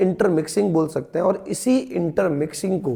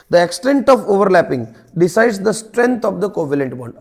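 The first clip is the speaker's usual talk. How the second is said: slow dictation; much slower than usual. Shown as a demonstration. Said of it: "dictating definition to students".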